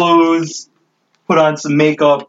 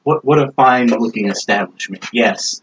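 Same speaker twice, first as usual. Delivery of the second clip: lady Sorrow; 4 semitones lower than usual. Acted. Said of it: "she's like".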